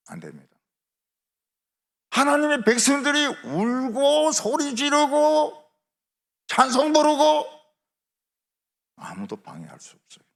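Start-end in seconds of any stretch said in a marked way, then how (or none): 2.1-7.5 loud, high, drawn-out preaching cry; full-force proclamation. Real, not acted. Preacher proclaiming God's people crying out, full-force proclamation. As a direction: proclaim it loudly, stretching each phrase high.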